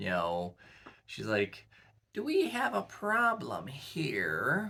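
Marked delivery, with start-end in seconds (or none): 2.1-4.7 put-on very high, slow, sing-song, swooping old grandmother voice. Describing a powerful old character putting young people in place: Fisher Gesha old grandmother voice. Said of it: "she talks like an old grandmother".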